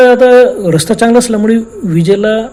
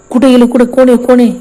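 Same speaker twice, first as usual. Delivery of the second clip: loud, high calls into the dark; calling out; 4 semitones higher, 3 dB louder than usual. Retold or imitated. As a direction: shout outward searching for them. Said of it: "बाहेर आरोळी मारली".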